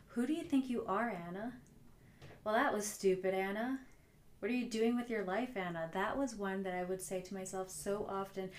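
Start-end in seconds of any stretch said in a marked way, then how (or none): 0.1-1.5 harsh self-talk. Retold or imitated. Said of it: "Some of my frequent thoughts were". 2.4-3.8 harsh self-talk. Retold or imitated. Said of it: "Some of my frequent thoughts were". 4.4-5.9 a touch of scolding, mock harsh; harsh self-talk. Speaker voicing her inner critic, mildly scornful. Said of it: "you could hear it in the tone".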